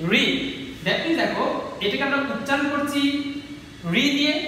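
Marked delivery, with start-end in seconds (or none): 0.1-0.2 a teacher's isolated model of রি, pronounced "ri"; pronunciation demo. Shown as a demonstration. Teacher shows students how the letter sounds, রি pronounced "ri". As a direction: say রি as one clear "ri" syllable. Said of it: "উচ্চারণ করেছে কি".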